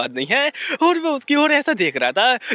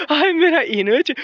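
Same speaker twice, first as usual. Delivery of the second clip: shy, doting sigh; 5 semitones higher than usual. A narrator's reading. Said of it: "बड़ी शर्मा शर्मा से देखे जा रही थी".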